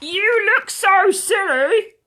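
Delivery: a mother laughing at her piglet; lightly voiced teasing mother. Tom's mother speaks.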